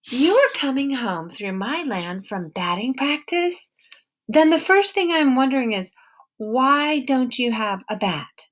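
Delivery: a suspicious woman with a hint of an accent, guarding her barn; stern wary woman. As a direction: hold your ground and interrogate him. Woman questions Peter.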